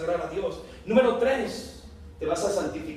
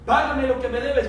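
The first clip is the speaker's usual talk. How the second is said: angry demand; 4 semitones higher, 5 dB louder than usual. Acted. Servant's demand repeated.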